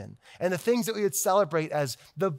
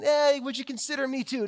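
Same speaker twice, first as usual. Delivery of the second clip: a light mock of a timid pleading voice; weenie voice; 5 semitones higher than usual. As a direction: mockingly voice a meek little asker. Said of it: "this weenie voice out there".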